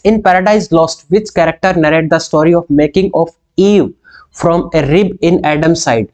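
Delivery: dictating a quiz question, word by word; teacher reading an exam question slowly. Acted. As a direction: read the question slowly and deliberately. Reads quiz question aloud.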